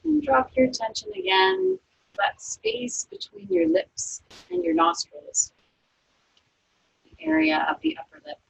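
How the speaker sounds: calm, unhurried body-scan voice; guided meditation. Acted. Yoga teacher guiding students through a resting body scan, calm meditation voice.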